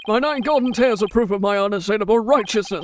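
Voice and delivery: lightly voiced righteous hero; a hint of pompous champion; Balance. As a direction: proclaim it as a heroic wrestler. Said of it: "I'm giving him balance voice".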